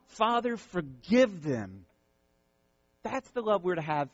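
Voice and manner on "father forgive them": slow, earnest quoted prayer; tender plea. Acted. Pastor voicing Jesus forgiving from the cross, slow. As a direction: pray it slowly and gently. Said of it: "quoting Jesus on the cross".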